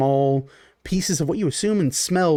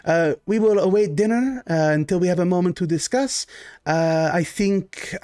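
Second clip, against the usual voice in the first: a hint of a gracious noble host, a little higher; lightly voiced genteel Baron; 5 semitones higher than usual. GM as the Baron greeting his guests: lightly voiced genteel host.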